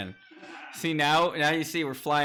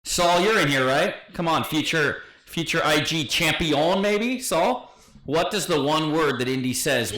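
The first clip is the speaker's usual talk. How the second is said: calling out; 4 semitones higher, 6 dB louder, slower than usual. Real, not acted. Calling out to chat.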